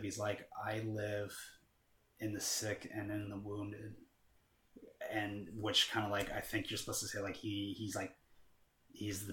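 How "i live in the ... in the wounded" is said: soft, measured hint of a demon; calm demonic voice. Demon answering where it lives, lightly voiced calm menace. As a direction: lightly voice a cool, collected possessor. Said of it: "very cool, calm, collect, deep, demonic".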